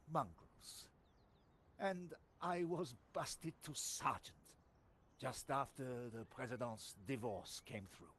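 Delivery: put-on French sergeant accent, rueful; lightly held French accent, recounting. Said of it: "you just get a French accent".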